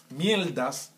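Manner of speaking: "mierdas" with the r turned to l, miel-das; an L in place of the R in "mierdas"; Cuban-style pronunciation. Shown as a demonstration. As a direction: say "mierdas" as "mieldas", falling at the end. Repeats word in contrasting pronunciations.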